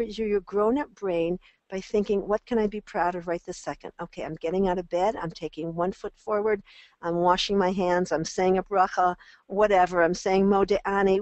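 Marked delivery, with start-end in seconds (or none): 2.3-11.2 proud self-cheer. Shown as a demonstration. Coach demonstrating a child's proud morning self-talk, building to a cheer. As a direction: cheer yourself on getting out of bed. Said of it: "the minute you start saying".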